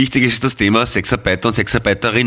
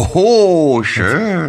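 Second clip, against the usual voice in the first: surprised oho; 8 semitones higher, much slower than usual. Real, not acted. Pun on Schlager, impressed reaction.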